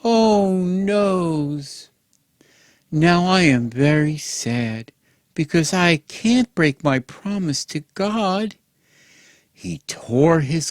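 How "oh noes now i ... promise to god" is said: higher, louder mock wail of despair; father crying out in mock despair at his daughter; hammed-up cry. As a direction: overact the father's lament. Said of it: "Jephthah cried out".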